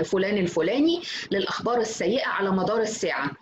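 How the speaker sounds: a light, understated breaking-news read; serious news anchor. Shown as a demonstration. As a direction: deliver it like a grave newsreader, lightly. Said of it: "بالطريقة الجادة زي المذيع الأولاني ده". (قراءة خبر عاجل بجدية خفيفة)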